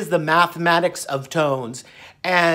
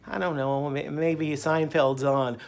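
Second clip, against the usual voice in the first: mock mumble; 5 semitones lower, 11 dB quieter than usual. Imitating his old lazy self answering the doctor, soft. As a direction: mumble it lazily and softly. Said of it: "And I go".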